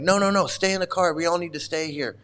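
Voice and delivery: mildly mock-controlling insistence; retold bossy direction. Big man ordering passengers to stay, mock bossy. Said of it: "like, give direction".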